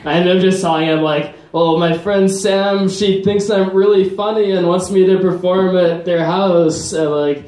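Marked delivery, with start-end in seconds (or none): 1.5-6.9 slightly higher, slow-starting nervous explanation; a touch of scared, raised pitch. Retold or imitated. Comedian retelling a nervous answer to the border officer, mildly high-pitched. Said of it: "more of a high-pitched voice".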